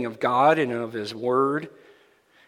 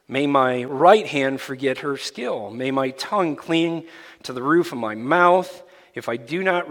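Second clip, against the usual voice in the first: scripture reading. Acted. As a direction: proclaim the psalm to the congregation. Reads scripture aloud.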